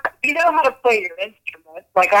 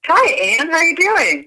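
on speakerphone; 9 semitones higher than usual. Real, not acted. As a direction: voice through a phone speaker. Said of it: "You're on speaker".

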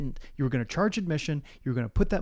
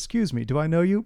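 a bit higher, lightly voiced deer; 4 semitones higher, 5 dB louder than usual. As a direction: squeak it like a filtered deer. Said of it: "all this high pitched, uh, new deer voice".

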